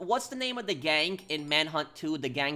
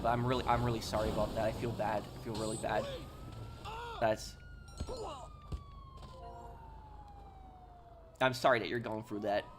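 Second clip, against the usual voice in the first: sincere sympathy; 6 dB quieter than usual. Real, not acted. Repeating sympathy for a grieving viewer.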